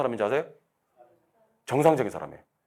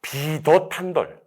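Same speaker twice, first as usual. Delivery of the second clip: 암기식 낭독; 3 semitones higher, much slower than usual. Acted. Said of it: "간혹 이런 사람들이 계시더라고".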